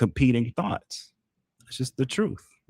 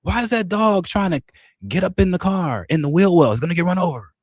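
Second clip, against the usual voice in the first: much higher, alarmed onlooker voice; mock bystander alarm; 8 semitones higher than usual. Onlooker watching dog chase car, high alarmed mock voice. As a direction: gawk at the dog in high disbelief. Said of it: "It's like".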